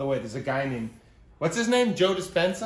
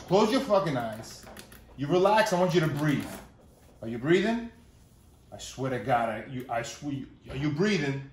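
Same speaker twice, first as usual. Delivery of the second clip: gruff meditation guru; 3 dB louder than usual. Retold or imitated. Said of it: "my impression of a guy named Joe Dispenza".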